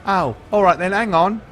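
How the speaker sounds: put-on high, loud kid voice; eager squeaky boy.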